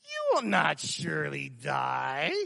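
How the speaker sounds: Satan softly coaxing Eve, slow and sly. Acted. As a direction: purr the lie softly. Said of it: "My wife says I do that really good".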